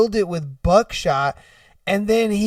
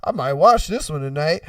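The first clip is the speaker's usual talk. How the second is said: low, idle self-talk; casual browsing officer; 5 semitones lower than usual. Acted. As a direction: muse to yourself, low and oblivious. Oblivious officer browsing tapes.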